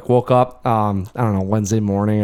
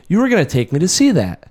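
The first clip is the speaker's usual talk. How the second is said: lightly voiced kid, higher pitch; complaining child; 4 semitones higher than usual. Dad retelling his son's complaint at the movies, lightly voiced protest. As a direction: imitate a kid's mild protest.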